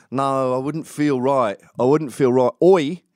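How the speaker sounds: bad Tommy impression. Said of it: "I'm doing a terrible Tommy".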